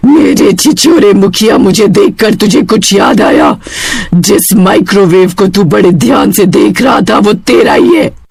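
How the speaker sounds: a touch of a vengeful witch; menacing witch. Acted. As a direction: taunt him as the witch. Witch confronts the headman. (मुखिया को धमकाती चुड़ैल)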